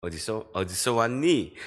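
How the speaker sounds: imitated Seoul standard speech; Seoul accent. Shown as a demonstration. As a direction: ask it the Seoul way, in standard Korean. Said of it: "이렇게 서울에서 이야기하면". (서울말로 묻는 말투)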